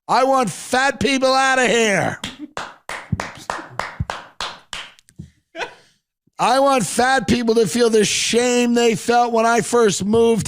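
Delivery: Rick's speech. Retold or imitated. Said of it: "He goes".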